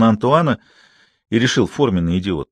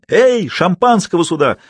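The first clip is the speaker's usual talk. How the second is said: much higher joyful call, slow; 9 semitones higher, 4 dB louder than usual. A narrator's reading. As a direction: call for the waiters, elated. Антуан calls for champagne. (радостно, зовёт официантов)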